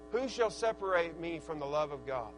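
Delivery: low, measured reciting of scripture; scripture recitation. Acted. Preacher reciting Scripture to the congregation, solemn recitation. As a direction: recite the verse solemnly, voice dropping toward the end.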